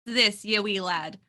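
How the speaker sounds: slow, playful Scottish brogue; Scottish accent. Pretend. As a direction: growl it like a Highland laird. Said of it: "I'm really trying with the accent".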